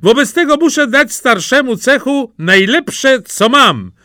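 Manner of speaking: high, loud, gleeful resolve; bold declaration. A narrator's reading. Simple Jack prepares to give the guild master mud, bold declaration. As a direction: announce it with cheeky bravado. Simpleton defiantly answers the threat.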